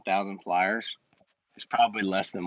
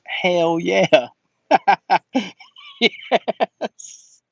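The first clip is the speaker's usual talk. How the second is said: higher and louder, laughing through it; laughing yes; 7 semitones higher, 6 dB louder, much slower than usual. Real, not acted. Answering a viewer's fume question, laughing loudly. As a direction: burst out laughing as you agree.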